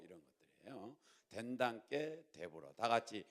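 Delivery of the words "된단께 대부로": slow Jeolla dialect, endings drawn out; Jeolla accent. Shown as a demonstration. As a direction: teach the Jeolla version slowly. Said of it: "전라도 버전으로".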